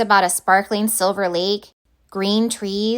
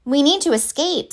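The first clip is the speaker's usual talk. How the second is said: sudden urgency; 6 semitones higher than usual. Acted. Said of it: "said Barnabas suddenly".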